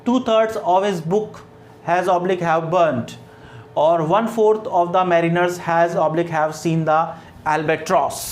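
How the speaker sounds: very slow, word by word reading; slow classroom dictation pace. Shown as a demonstration. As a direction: read the sentence out slowly for dictation. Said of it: "teacher reads sentences slowly".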